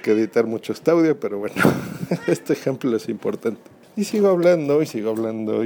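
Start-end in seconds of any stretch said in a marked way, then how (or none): 4.0-4.8 voz cercana. Shown as a demonstration. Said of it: "me estoy moviendo de lugar con mi teléfono". 4.8-5.6 voz alejándose. Shown as a demonstration. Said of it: "me estoy moviendo de lugar con mi teléfono".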